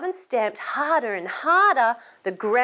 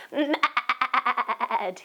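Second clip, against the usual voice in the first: growled mad. Shown as a demonstration. Teacher showing the children how to say mad. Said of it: "Can you say mad like that with me".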